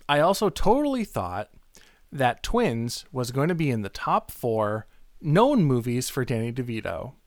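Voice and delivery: odd stress on "known", slowed down; weird emphasis. Acted. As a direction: read "top four known" with a strange, deliberate hit on "known". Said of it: "Weird emphasis".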